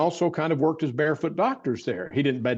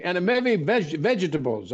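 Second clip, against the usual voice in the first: silly voice; 4 semitones higher than usual. Retold or imitated. Recalling the barefoot doctor at his bedside, in a higher silly voice. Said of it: "the silly voice I'm doing".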